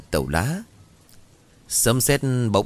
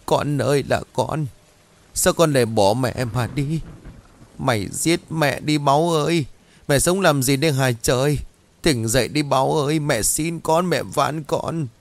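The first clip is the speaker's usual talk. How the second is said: a mother's raw lament, voice breaking higher and higher; anguished wailing; 5 semitones higher than usual. A narrator's reading. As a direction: wail it out, begging the child to wake. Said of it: "gào lên đầy thống khổ".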